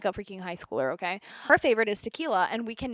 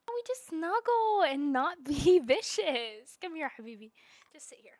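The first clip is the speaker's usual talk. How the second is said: cooing to cat; 7 semitones higher than usual. Real, not acted.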